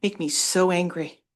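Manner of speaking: trembling, upset voice; shaking with anger. Real, not acted. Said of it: "I'm sorry, I'm shaking".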